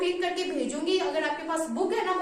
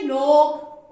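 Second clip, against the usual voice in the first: emphatic word; 2 semitones lower, 9 dB louder, much slower than usual. Shown as a demonstration. Teacher answering her own question for pupils, loud. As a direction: say लॉक loud and clear. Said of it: "इसको क्या बोलते हैं English में".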